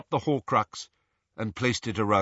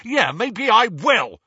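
slow, loud, higher defiant shout; 10 semitones higher, 7 dB louder than usual. Acted. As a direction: shout it back as a dare. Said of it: "shouted Ron".

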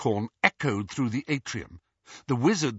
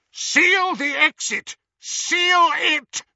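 high, loud, urgent command; shouted order; 6 dB louder, much slower than usual. A narrator's reading. Yaxley running to stop the escape, shouting. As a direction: yell it across the hall.

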